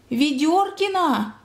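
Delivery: doctor's cry. A narrator's reading. Doctor crying out among the crowd, drawn-out alarmed call. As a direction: cry the surname out slowly. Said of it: "закричал детский доктор".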